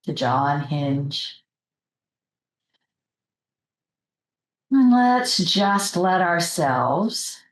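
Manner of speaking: unhurried meditation leader's voice, with long pauses; guided meditation. Real, not acted. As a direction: gently guide the group into relaxing, pausing between phrases.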